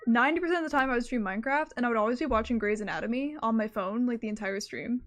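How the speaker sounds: breathless, rushing the words; panting through a fast ramble; out of breath. Real, not acted. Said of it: "I'm, like, out of breath".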